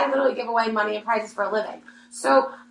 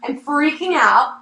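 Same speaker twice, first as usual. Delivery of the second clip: retold gushing excitement; 4 semitones higher than usual. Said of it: "I'm so excited".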